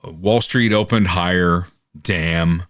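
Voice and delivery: grudging, understated let-down news line; disappointed attitude. Acted. Wire service reluctantly posting a good market open, mock disappointed. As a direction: report good news as if it's a letdown. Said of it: "that kind of an attitude".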